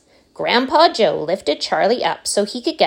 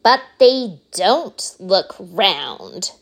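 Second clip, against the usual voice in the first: put-on bratty girl; much slower than usual. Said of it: "said Veruca Salt".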